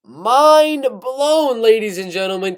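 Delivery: hyping the McGregor news to the viewers, excited and loud; mind blown. Real, not acted. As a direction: sell the shock to the viewers.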